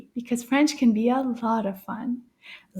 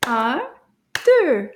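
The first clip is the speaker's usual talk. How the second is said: clapping out syllables; 5 dB louder than usual. Shown as a demonstration. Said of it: "Let's clap the syllables".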